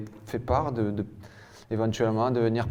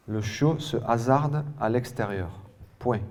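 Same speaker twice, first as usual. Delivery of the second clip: "Le chiot se hasarde à l'extérieur" in one even phrase; measured reading, falling on "extérieur"; joined-up dictation repeat. Real, not acted. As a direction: repeat the sentence whole, without breaks. Dictation repeated as whole sentence.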